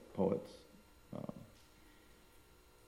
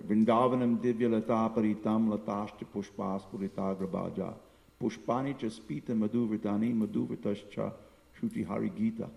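measured, chant-like Sanskrit recitation; Sanskrit verse recitation. Acted. Teacher quoting a remembered scripture verse to devotees, chant-like recitation. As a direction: recite the verse in an even, flowing cadence.

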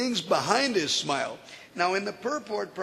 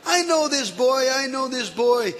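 higher, louder insistent plea; louder, pleading repetition; urgent vouching; 6 semitones higher, 4 dB louder than usual. Acted. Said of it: "And Narada Muni says".

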